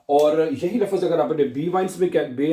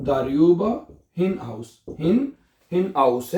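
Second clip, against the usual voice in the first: slow model word; 3 semitones higher, much slower than usual. Shown as a demonstration. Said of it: "क्या बनेगा?".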